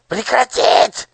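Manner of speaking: very high, loud furious squeal; raging shriek. A narrator's reading. Nushrok rages at the singing crowd. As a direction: rage and shriek the order. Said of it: "бесновался Нушрок".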